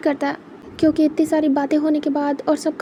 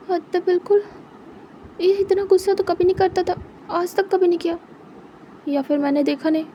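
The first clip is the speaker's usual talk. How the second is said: higher, coaxing plea; pleading boyfriend; 5 semitones higher than usual. Acted. Wing begging Wang ji to meet once, higher pleading voice. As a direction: coax him back, begging sweetly. Wing talks to himself, upset.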